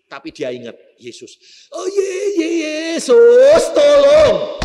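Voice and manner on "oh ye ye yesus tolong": high, loud sobbing cry for help; the dying man crying out to Jesus in terror; desperate crying plea. Acted. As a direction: wail it out, begging for rescue. Crushed man cries to Jesus.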